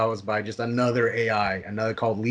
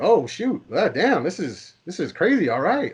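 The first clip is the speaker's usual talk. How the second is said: high, gleeful oh shoot and damn; excited; 6 semitones higher than usual. Retold or imitated. Brother reacting to the movie death, high and excited. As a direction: get swept up in the twist. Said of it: "they got into it".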